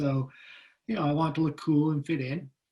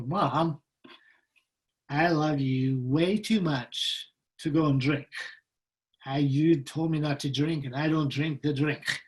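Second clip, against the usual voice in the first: faking sober innocence. Retold or imitated. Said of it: "I can act my way out of it".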